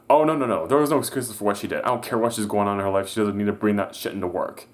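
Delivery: a customer who won't hear excuses; indignant customer. Retold or imitated.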